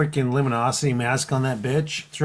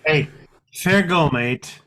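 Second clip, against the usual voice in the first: mock Aussie slang; slower than usual. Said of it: "doing the Australian accent".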